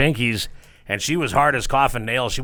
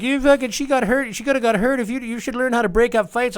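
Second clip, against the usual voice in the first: mock angry scolding; 11 semitones higher, 4 dB louder than usual. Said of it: "I got everybody like".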